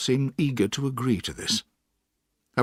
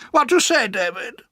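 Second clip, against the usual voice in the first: put-on high, brisk old-lady voice; stern old aunt; 12 semitones higher, 6 dB louder than usual. A narrator's reading. Aunt orders the boy put to bed, high and brisk. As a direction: play the bossy aunt deciding.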